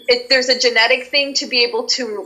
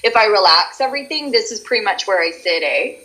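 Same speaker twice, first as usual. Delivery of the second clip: Canadian accent. Shown as a demonstration. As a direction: let the muscles relax into Canadian. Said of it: "most intense Canadian as you talk".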